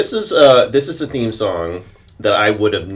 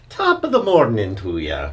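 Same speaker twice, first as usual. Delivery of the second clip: a slightly better Irish brogue; Irish accent. Pretend. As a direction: try the Irish accent again, more carefully. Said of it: "That's a little better".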